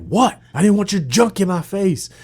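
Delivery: high, playful fake-innocent whine; feigned innocence; innocent mock reply. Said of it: "I'm like".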